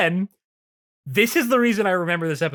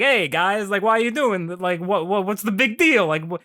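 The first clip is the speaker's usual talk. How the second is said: put-on Italian accent. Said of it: "the way he talks".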